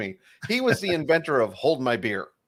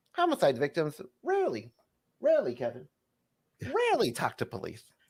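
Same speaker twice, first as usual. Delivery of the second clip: wide pitch swings, slow, labored, hammering emphasis; 5 dB quieter than usual. Showing how a talk show host over-explains a joke: Jay Leno impression. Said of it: "So it'd be like this".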